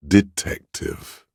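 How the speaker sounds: high, slow, drawn-out syllables; high lingering word, each syllable drawn out; lingering call. Acted. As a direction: stretch the word out high and let it hang. Word left lingering in the air.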